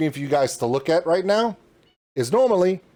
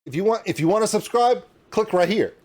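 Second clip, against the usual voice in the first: retold outro line; 4 semitones higher than usual. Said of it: "You see where I said".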